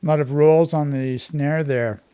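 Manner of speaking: talking while chewing popcorn; munching popcorn. Real, not acted. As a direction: mouth full of popcorn. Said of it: "Sorry, I'm eating popcorn".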